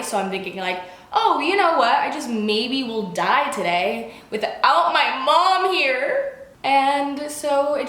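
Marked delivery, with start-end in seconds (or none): 1.1-6.4 higher, drawn-out mock despair; mock-dramatic fretting. Patient facing surgery without mom, mock-dramatic fretting. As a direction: lament it with exaggerated self-pity. Retold panicked thought about dying.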